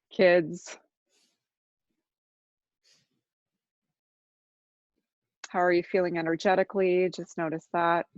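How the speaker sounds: unhurried meditation guide with long silences; guided meditation. Real, not acted. Teacher guiding listeners to notice their body, calm guided meditation. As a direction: ease listeners into noticing, leaving long pauses.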